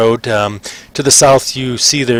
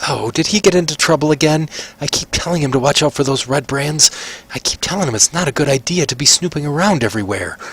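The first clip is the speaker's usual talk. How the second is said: fretting mother; 4 semitones higher than usual. Acted. Halfling mother worries about her son.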